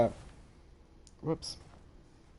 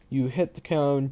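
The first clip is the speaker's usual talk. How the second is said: normal talking voice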